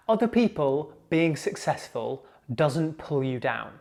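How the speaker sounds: deliberate, with pauses between phrases; slow for emphasis. Shown as a demonstration. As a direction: spell out the important point slowly. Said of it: "I'm gonna say it slowly".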